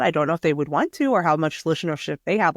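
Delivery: talking around a cough drop; whistling slightly through a lozenge; cough drop in mouth. Real, not acted. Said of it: "I put a cough drop in my mouth and I just really whistled on my listenership".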